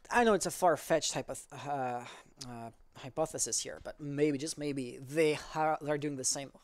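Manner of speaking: halting, stumbling speech; stuttering. Real, not acted. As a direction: trip over the words. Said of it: "Sorry for my stuttering".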